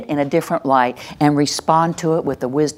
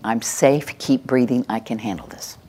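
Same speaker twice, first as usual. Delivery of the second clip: calm mantra; 5 semitones lower than usual. Shown as a demonstration. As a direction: say it like a calming mantra. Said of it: "say this with me".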